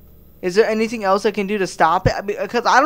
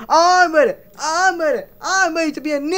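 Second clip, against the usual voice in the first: higher, hammed-up crying shout; mock yell; 8 semitones higher than usual. White guy runs around the neighborhood wailing, mock crying. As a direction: wail it like a fake convert. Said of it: "run around the neighborhood yelling".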